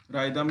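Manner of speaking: राइदम starting on a plain R, no H; silent H. Shown as a demonstration. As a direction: drop the H after R in राइदम. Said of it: "इसका उच्चारण नहीं होता".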